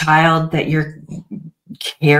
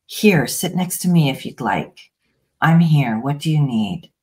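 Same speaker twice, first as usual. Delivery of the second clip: put-on soothing a child. Shown as a demonstration. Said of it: "turn to the child and say".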